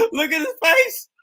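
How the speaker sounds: high squealed words mid-laugh; real laughing fit, voice way up high; helpless laughter. Real, not acted. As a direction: squeal it out while cracking up. Cracking up at the man's face.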